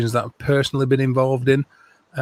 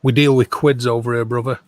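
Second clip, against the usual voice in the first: a light put-on hillbilly accent; hint of a Southern hillbilly accent, playful. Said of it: "hillbilly accent".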